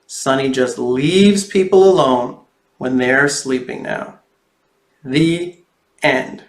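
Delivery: put-on lively storybook reading for kids; reading to children. A narrator's reading. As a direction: read it like a picture book to little ones. Reads picture book to children.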